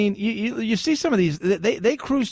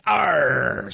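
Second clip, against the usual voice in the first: pirate growl; 5 semitones lower than usual. Pretend. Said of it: "Talk Like a Pirate Day".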